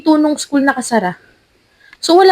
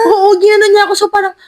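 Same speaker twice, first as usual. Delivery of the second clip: laughing; 8 semitones higher, 4 dB louder, faster than usual. Real, not acted. Laughing while confirming the story.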